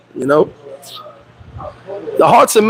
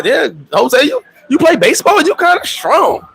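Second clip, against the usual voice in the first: flirty wife; 7 semitones higher than usual. Retold or imitated.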